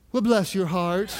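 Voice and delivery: laughing through "Well, bless your heart". Retold or imitated. Retelling the nurse's put-down, laughing. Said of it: "And she said".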